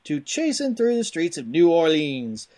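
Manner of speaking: hammy Cajun game-box hype; punchy back-of-the-box read in a rough Cajun accent; put-on Cajun accent. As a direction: read it like a Cajun swamp-adventure trailer. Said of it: "There's some Cajun".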